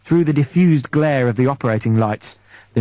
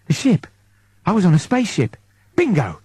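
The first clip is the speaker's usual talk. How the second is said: excited; 4 semitones higher than usual. Acted. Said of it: "Eddie's getting excited now".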